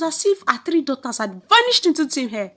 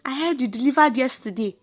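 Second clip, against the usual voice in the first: bright, louder congratulations; excited greeting; 4 semitones higher, 5 dB louder than usual. Acted. Neighbour greeting a new mother, excited. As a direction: call out happy congratulations.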